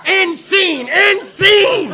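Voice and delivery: loud, urgent interruption; shouted halt. Real, not acted. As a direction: shout over the commotion. Halting the runaway improv.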